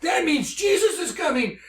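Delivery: high, shouted overjoyed realization; freaking out. Retold or imitated. Telling Corey on the phone, high shouted excitement. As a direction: cry out the revelation in shock. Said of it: "just freaking out".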